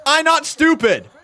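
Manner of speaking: hammed-up caveman grunt; imitating Braun. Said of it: "in his words".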